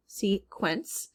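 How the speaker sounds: SEQUENCE split as "see ... kwence"; syllable by syllable. Shown as a demonstration. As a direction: break SEQUENCE before the "kw". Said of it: "not in the first syllable".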